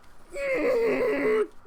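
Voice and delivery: high, rising scream of joy; real ecstatic yell; victory scream. Real, not acted. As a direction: let out a long triumphant shriek. Final whistle, victory scream.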